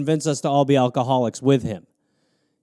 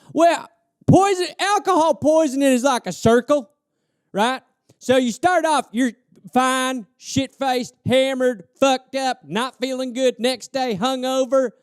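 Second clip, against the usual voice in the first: put-on higher sing-song drunk logic; mock drunk reasoning; 7 semitones higher than usual. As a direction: lay out the circle like a guru.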